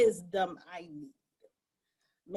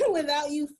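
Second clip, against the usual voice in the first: pleading question; 4 semitones higher than usual. Retold or imitated. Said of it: "And I'm like".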